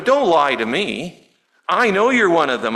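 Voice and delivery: lightly acted scorn, stretching the first words; disrespectful accusation. Servant girl confronting Peter about his lie, mildly disrespectful. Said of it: "I almost sense a tone of disrespect".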